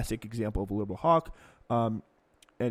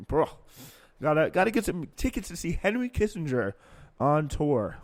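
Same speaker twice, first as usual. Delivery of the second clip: bro voice; 4 semitones higher, 4 dB louder than usual. Retold or imitated. Mocking a Kissinger fan.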